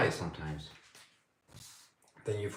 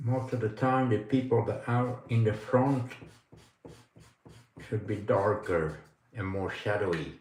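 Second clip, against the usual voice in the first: pen in mouth. Real, not acted. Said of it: "I have a pen in my mouth when I talk like that".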